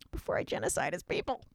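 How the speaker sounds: whispered villain aside; sinister whisper. Acted. Haman adds his evil plan under his breath, whispered. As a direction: breathe it like a dark secret.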